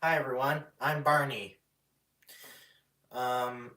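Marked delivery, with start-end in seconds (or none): 0.0-1.6 Barney. Acted. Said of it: "do use my voice for".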